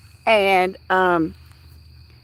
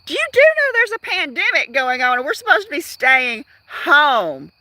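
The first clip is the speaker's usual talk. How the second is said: scolding retort; 2 semitones higher than usual. Retold or imitated. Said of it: "And I said".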